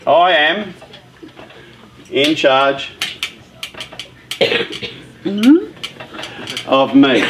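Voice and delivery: each word set apart with long pauses; slow emphatic statement. Shown as a demonstration. Coach drilling the audience: slow, deliberate motto. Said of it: "Number one".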